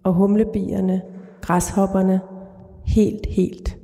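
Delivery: calm, even literary read-aloud; measured reading of a dark short story. A narrator's reading. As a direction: read the story steadily to the listener. Author reads her short story aloud.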